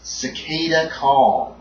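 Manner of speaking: slow, suspenseful horror narration; dramatic game master describing a monster's arrival; game master scene setting. A narrator's reading. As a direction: draw out each detail of the horror.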